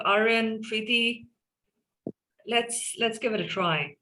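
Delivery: ordinary delivery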